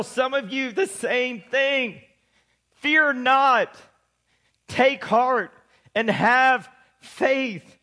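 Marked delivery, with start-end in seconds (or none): 2.8-7.8 slow, paused preacher's declaration; preaching. Acted. Preacher telling the church to fear not, slow. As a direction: let each phrase land.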